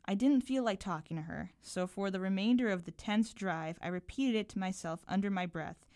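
measured, carefully articulated reading aloud; literary reading with lightly voiced dialogue; story narration. A narrator's reading. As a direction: read your short story to listeners, unhurried. Reads own story aloud.

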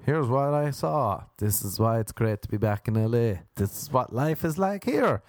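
lightly voiced news reporter; a hint of on-the-scene reporting, lifting at the end. Parodying his own post, like reporting the news. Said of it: "like I was reporting the news".

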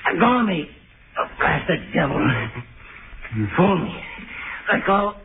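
panicked shouts, high-pitched; wrestling. Acted. Spider grabs his arm.

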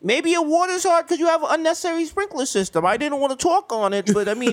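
high-pitched hammed-up Jewish neighbor; Jewish accent. Neighbor advises on hard water, Jewish accent. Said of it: "doing a Jewish accent".

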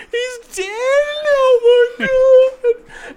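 loud, high, drawn-out comic wail; mock bawling child. Kid bawling over the lion he hears is dead, hammed-up wail. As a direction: imitate a kid bawling, stretching the last words. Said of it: "there's this kid just bawling".

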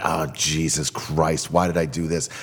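low, slow, sinking groan of dismay; retold sinking dread, said low and drawn out; dismayed regret. Man recalls mushrooms starting to hit him, low regretful dismay.

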